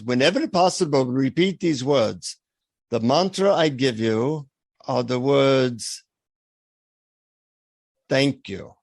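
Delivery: put-on slow, solemn guru in an Indian accent; imitated Indian guru. Guru imparting his mantra to visitor, slow Indian accent. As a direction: reveal a secret slowly, Indian accent, long pauses. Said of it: "He leans in to whisper it in my ear".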